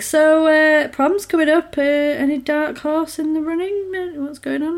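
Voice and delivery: mock parents fishing for gossip; imitating nosy parents. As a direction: tease her like curious parents. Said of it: "they're like".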